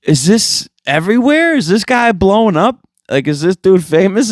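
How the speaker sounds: excited retold disbelief; mind-blown. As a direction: sound like the video just broke your brain. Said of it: "losing my mind 'cause I'm like".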